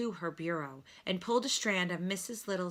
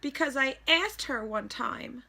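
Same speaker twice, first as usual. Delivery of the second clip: crying out; 7 semitones higher than usual. A narrator's reading. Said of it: "cried Stuart".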